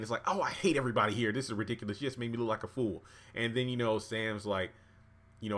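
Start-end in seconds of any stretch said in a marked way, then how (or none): 0.3-3.0 quick mock whine; lightly voiced griping; whining complaint. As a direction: imitate a fed-up complainer, rattled off. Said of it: "the way they whine and complain".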